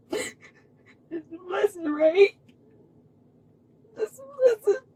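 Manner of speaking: slow, tearful, breaking voice; crying. Real, not acted. Telling herself the arrest is a blessing, tearful. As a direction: force the comfort out through tears. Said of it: "I'm gonna suck these fucking tears up".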